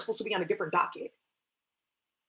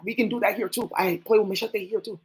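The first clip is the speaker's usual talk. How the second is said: a hint of a Spanish accent. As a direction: lightly put on a Spanish accent. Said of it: "You like my Spanish accent?".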